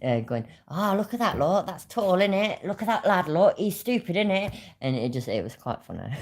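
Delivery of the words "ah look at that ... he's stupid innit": higher-pitched mocking banter; playful piss-take in a raised voice; taking the piss. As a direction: send up people who say "innit". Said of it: "started taking the piss as we walked".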